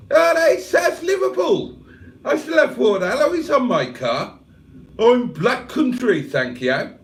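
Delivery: high, loud, hammed-up Black Country voice; Black Country accent, pitched right up. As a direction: put on an indignant Black Country protest. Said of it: "Cheeseburger is officially a Yam Yam".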